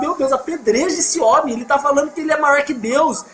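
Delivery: a hint of shocked religious men crying foul; scandalized Pharisees. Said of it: "Os caras falavam".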